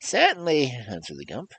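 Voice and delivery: very high, loud squeaky voice of a huge beast; squeaky creature voice. Acted. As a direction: squeak like a tiny thing in a giant body. The Gump answers.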